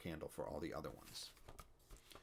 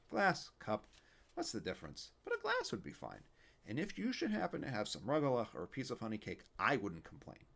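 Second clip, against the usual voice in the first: put-on a kvetching old man, raised up; Yiddish old man; 4 semitones higher than usual. Fischel voice continues.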